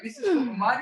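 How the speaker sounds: mock young boxer amazed; amazed excitement. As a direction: pitch way up in disbelief. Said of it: "And I was like".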